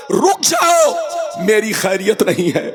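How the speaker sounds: preacher acting a terrified soul begging; half-wailed pleading of a sinner's soul; a soul dragged to the grave, crying out; dying soul pleading. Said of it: "چیخ چیخ کر کہتی ہے".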